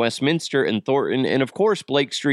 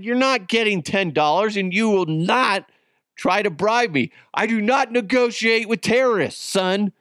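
mock stern dad; 6 semitones higher than usual. Retold stern refusal to son.

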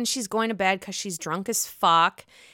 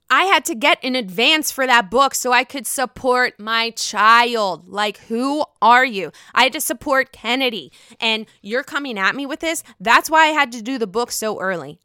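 louder, indignant mock rant; retold angry outburst, louder; heated defence; 6 dB louder than usual. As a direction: imitate her snapping back hard. Taylor defending herself in retold fight.

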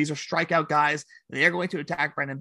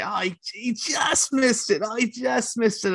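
lightly voiced broadcaster, slower; Kuiper impression; 7 semitones higher than usual. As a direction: mimic the TV announcer. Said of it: "you kept hearing Kuiper say".

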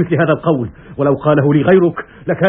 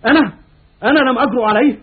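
high indignant question; outraged disbelief; 6 semitones higher, faster than usual. Acted. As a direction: stress أنا, pitch rising. Cassius repeats, more outraged.

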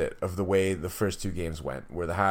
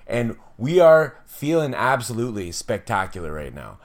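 excited; 3 semitones higher, 5 dB louder than usual. Real, not acted. Elated podcast opening.

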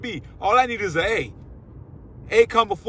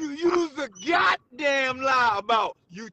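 mock outrage; 4 semitones higher, slower than usual. Real, not acted. Calling out co-host.

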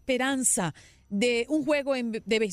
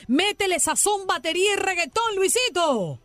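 loud hyped host; excited; 4 dB louder than usual. Real, not acted. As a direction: call in the next presenter with energy. Hyped intro of colleague.

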